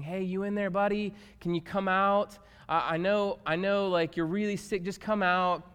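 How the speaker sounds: mild, chatty coaxing; mock casual coaxing. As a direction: coax a buddy lightly, in an everyday voice. Mock version of Jesus at tomb.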